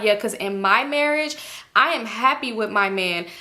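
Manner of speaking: smug, self-satisfied quote; Janet's smug voice. Retold or imitated. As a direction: say it pleased with yourself. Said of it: "And she like".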